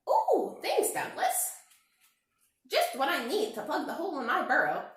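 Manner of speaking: very high, loud rabbit voice; cheery rabbit. Acted. Rabbit thanking Douglas for the hat, very high. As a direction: squeak it out happily.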